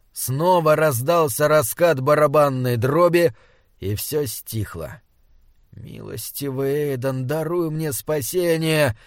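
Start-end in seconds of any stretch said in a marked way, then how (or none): 5.8-9.0 praying. A narrator's reading. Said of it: "молился Изерн".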